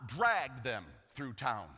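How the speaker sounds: dragged them through town stretched very slow; slow, drawn-out. Shown as a demonstration. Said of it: "and they dragged them through town".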